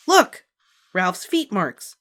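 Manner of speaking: put-on high, loud little-girl cry of delight; excited exclaim. A narrator's reading. Small girl shows her sister her paint marks, excited. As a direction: burst out with glee. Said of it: "exclaimed Ramona".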